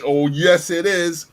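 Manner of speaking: imitating the rude driver, loud and snide; mocking the old woman. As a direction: toss it back like the cursing woman. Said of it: "She tells me in French".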